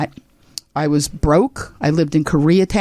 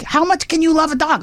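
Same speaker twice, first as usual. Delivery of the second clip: mocking family; 11 semitones higher than usual. Family mocking her dog love.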